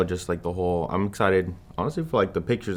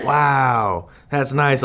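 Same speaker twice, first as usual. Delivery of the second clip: higher, louder gushing bystander impression; older man commenting; 6 semitones higher, 4 dB louder, much slower than usual. Waiter commenting while filming the proposal, mock gushing. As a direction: mimic an over-enthusiastic onlooker. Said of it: "he was trying to comment".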